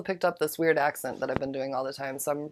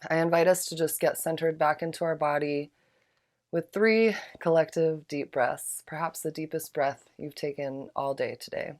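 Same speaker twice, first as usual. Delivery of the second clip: guided breathing. Acted. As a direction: lead the breaths gently and unhurried. Leads group breathing meditation.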